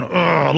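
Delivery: mock disgusted grunt; imitated growl. Secret Service agents glaring at protesters with hatred, imitated grunt. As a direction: grunt "ugh" like a hostile guard. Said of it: "Secret Service just literally just going".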